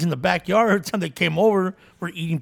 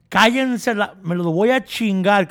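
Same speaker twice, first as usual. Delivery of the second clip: louder mock scold mid-prayer; scolding mom; 3 semitones higher, 5 dB louder, slower than usual. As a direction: snap at the kids between prayers. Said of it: "even when she was pissed".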